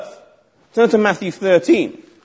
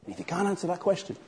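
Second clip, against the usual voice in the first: low taunting challenge; 4 semitones lower, 11 dB quieter than usual. Acted. Skeptic confronts Jesus in synagogue.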